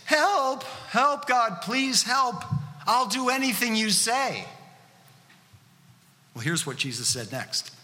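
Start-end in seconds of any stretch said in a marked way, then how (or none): 0.0-4.5 desperate plea. Pretend. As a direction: beg God like a panicked parent. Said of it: "Our prayers, like, in that situation, is".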